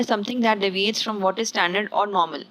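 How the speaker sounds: slow, careful definition read; slow dictation of a definition. Shown as a demonstration. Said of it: "English में यहाँ पर लिखा हुआ है".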